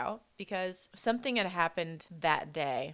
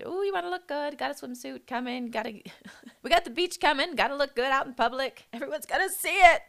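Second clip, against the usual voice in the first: much higher, hammed-up preening voice; mock vain gym-goer; 8 semitones higher, 5 dB louder than usual. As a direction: camp it up like someone obsessed with looking good. Mocking summer bod chasers.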